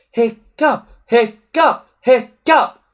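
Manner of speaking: high, loud chant of a name; crowd yelling. A narrator's reading. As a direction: boys yelling for their hero. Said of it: "yelled most of the boys".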